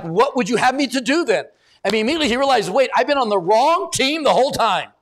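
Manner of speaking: energetic sermon retelling; animated preaching. Acted. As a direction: preach it with urgency, acting out each voice. Preaches with rising intensity.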